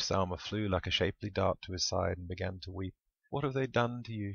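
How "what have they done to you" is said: bawling. A narrator's reading. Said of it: "she bawled rhetorically".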